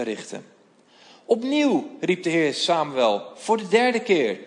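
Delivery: measured storytelling read of the Bible passage, voices lightly acted; scripture reading. Voorlezen van het bijbelverhaal. (bijbelverhaal voorlezen met lichte stemmetjes)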